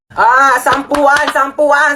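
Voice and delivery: drawn-out barker call; hoarse jeepney route shouts. Acted.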